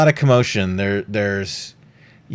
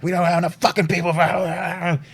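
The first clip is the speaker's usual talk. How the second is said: yelling captain; 8 semitones higher than usual. Retold or imitated. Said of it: "captains yelling at their subordinates".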